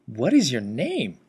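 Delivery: slow, swooping question for dictation; deliberate dictation delivery; dictation demo. Shown as a demonstration. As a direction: say it slowly for the software, pitch rising and dipping. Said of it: "So if I say".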